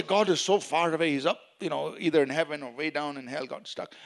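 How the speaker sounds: half-hearted doubter's complaint, fading away; hopeless. Acted. Preacher imitates how believers should not speak, mildly hopeless. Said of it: "We don't speak like that".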